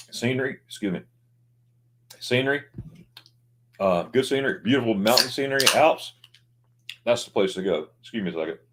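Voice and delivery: throat catching on food; choking on food. Real, not acted. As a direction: talk past a bit of pork skin. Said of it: "choking on my pork skin".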